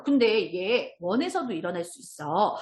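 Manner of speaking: ordinary talk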